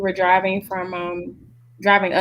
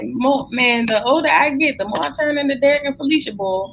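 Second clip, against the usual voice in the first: mock dismay; 6 semitones higher than usual. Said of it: "I said".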